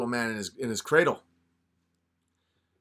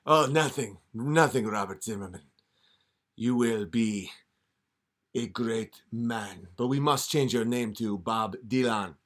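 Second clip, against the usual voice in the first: lightly lower, sly devil voice; a hint of a scheming devil; devil tempting; 3 semitones lower than usual. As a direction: coax him like a smooth devil. Devil makes deal.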